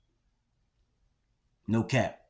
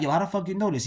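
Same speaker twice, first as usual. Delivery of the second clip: much higher, incredulous demand; shocked question; 9 semitones higher, faster than usual. Retold or imitated. Teen asking his friend how he knows, much higher and incredulous. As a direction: react like the news just floored you.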